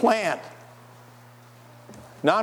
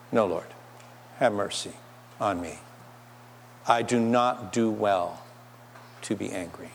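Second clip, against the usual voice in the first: humble prayer; 6 semitones lower, 6 dB quieter than usual. Acted. Preacher voices a repentant answer to God, soft and low.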